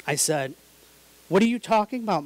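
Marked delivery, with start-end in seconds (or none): 1.3-2.2 high, loud shocked question; stunned disbelief. Retold or imitated. Son to mom, caught out, loud stunned disbelief. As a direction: blurt it out, caught off guard.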